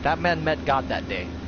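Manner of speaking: put-on light broken-English accent of an old martial arts master, clipped grammar; hint of a wise old master's foreign accent; mock old master's accent. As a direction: lightly imitate the old teacher's accent, calm and solemn. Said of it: "we can actually do the accent of how this story goes".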